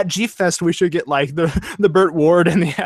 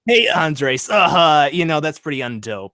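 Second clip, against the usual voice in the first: rival reviewer voice; 3 semitones higher than usual. Pretend. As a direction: play the lazy rival reviewer. Voicing Zanzibar character.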